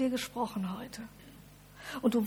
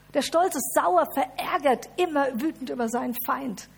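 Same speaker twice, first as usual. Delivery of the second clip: pride voiced loud; 3 semitones higher, 6 dB louder than usual. Pride contrasted loud with humility.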